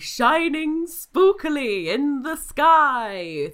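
slow, loud spooky rhyme; spooky narration. Acted. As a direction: read it like a ghost story. Spooky rhyming intro read.

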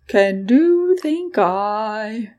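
lilting, sing-song dragon voice in the head. Acted. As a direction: let the words bob up and down like a tune. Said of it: "The sing-songed voice".

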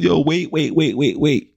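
high-pitched, rapid-fire pleading parody; mock protesting fan. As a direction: imitate a fan begging everyone to hold on. Mimics hype fans he is tired of.

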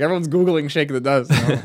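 loud, high voice for the poet; lightly voicing the poet.

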